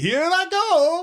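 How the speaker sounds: very high, pitched way up video-game voice. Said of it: "I was doing Mario Kart".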